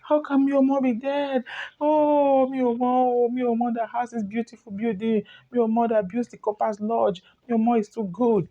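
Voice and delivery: wailing, lifted lament over a dead man; mock crying lament. Young man retelling grief with an acted wail. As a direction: mourn him aloud, half-acted. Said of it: "Then he started crying".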